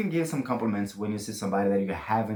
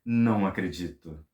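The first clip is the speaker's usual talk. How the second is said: amazed disbelief; 4 semitones lower than usual. Shown as a demonstration. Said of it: "you can say, like, gasps".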